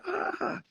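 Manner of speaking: high breathless squawk like a screaming bird. Retold or imitated. Telling a friend about the graveyard bird, a high imitated squawk. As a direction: mimic the bird's shriek. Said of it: "this bird started screaming".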